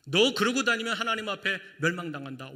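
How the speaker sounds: stern warning. Retold or imitated. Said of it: "주님께서는 완전수로".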